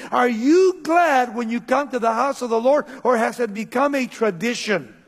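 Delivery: preacher voicing the psalmist's challenge; proclamation. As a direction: proclaim it as a pointed question. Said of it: "making a proclamation saying".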